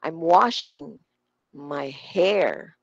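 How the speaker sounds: WASHING and HAIR strong, "I'm" and "my" light; stress WASHING and HAIR. Shown as a demonstration. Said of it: "Washing and hair".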